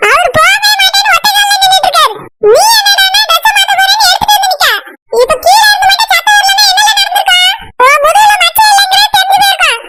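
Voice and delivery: angry scolding. Acted. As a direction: scold him for undressing in front of the visitor.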